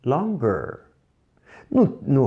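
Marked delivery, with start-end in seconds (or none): 0.0-0.8 Longer said as /loɡer/ with hard g; English model word; teacher's model word. Shown as a demonstration. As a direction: model Longer slowly and clearly. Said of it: "E mais longo, como seria?".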